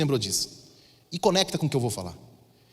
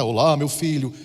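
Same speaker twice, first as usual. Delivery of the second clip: mock voice of God; 5 semitones lower than usual. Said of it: "você sabe que a voz de Deus não é".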